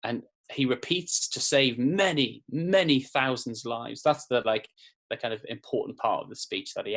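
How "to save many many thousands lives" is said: imitating a slow, deliberate politician's plea; slowed-down emphasis. Teacher mimicking a politician's speech, slow and deliberate. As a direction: stretch each word out like a prime minister urging the nation. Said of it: "you can hear how he slows down".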